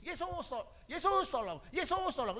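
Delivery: high anguished call for help; desperate plea. Shown as a demonstration. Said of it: "lebih panggil nama Yesus".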